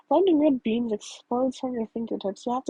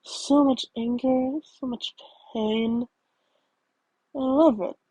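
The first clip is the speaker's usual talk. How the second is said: deep voice; slower than usual. Acted. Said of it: "the deep voice says".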